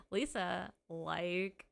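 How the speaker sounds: lightly mocked Valley Girl accent. Streamer mimicking the requested voice, mock Valley Girl accent. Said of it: "For a Valley Girl accent".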